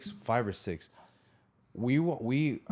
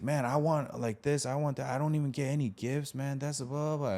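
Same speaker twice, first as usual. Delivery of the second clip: put-on higher-pitched complaining kid rant; going in; 5 semitones higher than usual. Kid berating his brother over missing gifts, retold rant. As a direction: replay a childish tirade at a raised pitch. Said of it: "going in on my brother".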